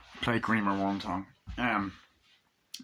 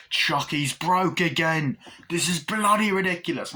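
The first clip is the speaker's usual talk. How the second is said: exasperated director; 5 semitones higher than usual. Retold or imitated. Voicing British director.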